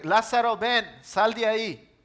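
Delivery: Jesus commanding Lázaro to come out, loud call. Acted. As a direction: call him out of the tomb. Jesus calls Lazarus from death.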